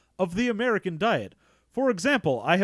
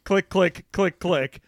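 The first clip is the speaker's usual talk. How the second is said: louder clicking drawl of a redneck bug monster; redneck scarab monster; 6 dB louder, slower than usual. Pretend. Host describes a scarab monster, cohost voices it as louder redneck. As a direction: click like a beetle, then talk like a hillbilly. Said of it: "scarab-headed sort of monster".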